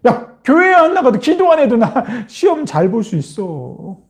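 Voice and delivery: mild mock cockiness; mocking scoffer. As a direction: brag dismissively to a believer. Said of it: "조롱하는 자들이 그렇게 얘기한다니까".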